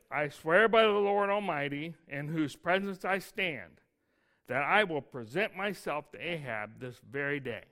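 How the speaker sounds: reading the oath out with weight; scripture reading. Acted. Preacher reads Elijah's oath to the congregation, firm.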